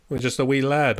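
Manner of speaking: lightly mimicked Scottish phrase; Scottish dialect. American quoting Scottish sayings to a Scot, light Scottish imitation. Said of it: "They would say, like".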